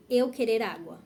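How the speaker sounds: deliberately wrong learner phrasing; broken Portuguese. Shown as a demonstration. Teacher demoing a learner's broken sentence. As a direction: say it like a beginner who can't conjugate. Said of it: "You are gonna understand".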